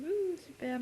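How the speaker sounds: high, mock-delighted ouh super; sarcastic praise. Real, not acted. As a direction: fake enthusiasm dripping with irony. Mocking oily Italian-American food.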